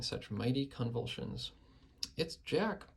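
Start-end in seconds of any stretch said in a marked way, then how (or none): 2.2-2.9 high panicked bellow; bellowed in terror. A narrator's reading. Terrified giant bellows out Jack's name, high and panicked. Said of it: "bellowed the flesh lump eater".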